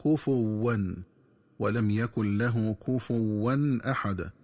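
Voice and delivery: "كفوا" said "kufuwwan" with a doubled waw, as the wrong reading; slow demo of the mistaken doubled waw; تشديد الواو خطأ. Shown as a demonstration. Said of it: "بتشديد الواو هكذا". (كفوا بتشديد الواو، نطق خاطئ)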